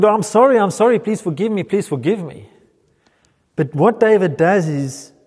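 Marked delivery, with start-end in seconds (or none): 0.0-2.5 high, hurried mock pleading; frantic sorry plea. Mocking a panicked plea for pardon, higher and hurried. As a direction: whine sorry over and over. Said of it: "He's not going".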